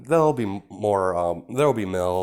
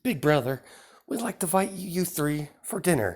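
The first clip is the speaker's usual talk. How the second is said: lightly higher-pitched younger sister, polite and sly; a sly little sister delivering an invitation, pitched up; sister character; 6 semitones higher than usual. Acted. Sister voices invitation, high.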